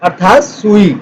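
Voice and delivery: slow read-along. Shown as a demonstration. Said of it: "साथ साथ हम पढ़ते चलेंगे".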